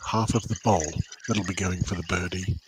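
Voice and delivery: low, hushed golf commentator. Pretend. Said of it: "You need golf announcer voices here".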